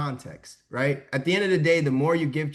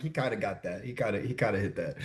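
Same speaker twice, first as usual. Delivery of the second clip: imitating the audience; 5 semitones lower, 7 dB quieter, faster than usual. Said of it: "Y'all are like".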